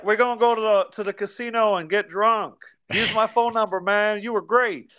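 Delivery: imitating Chuck. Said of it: "And he's like".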